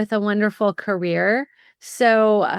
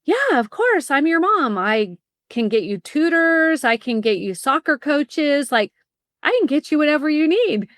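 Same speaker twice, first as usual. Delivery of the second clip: eager mom; 4 semitones higher than usual. Retold or imitated. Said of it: "And I thought".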